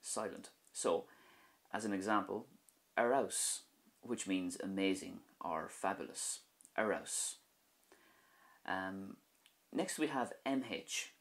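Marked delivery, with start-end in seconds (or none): 3.0-3.6 araos with the fh silent, a-rous. Shown as a demonstration. Teacher showing learners araos with silent fh. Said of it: "This is silent in the Irish language". 6.8-7.4 araos with the fh silent, a-rous. Shown as a demonstration. Teacher showing learners araos with silent fh. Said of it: "This is silent in the Irish language".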